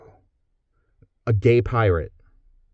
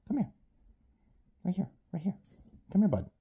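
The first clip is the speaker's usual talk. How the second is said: higher coaxing call to a pet; calling the dog; 11 semitones higher, much faster than usual. Real, not acted. Owner calling his little dog over in a higher coaxing voice. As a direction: coax the dog over, pitched up.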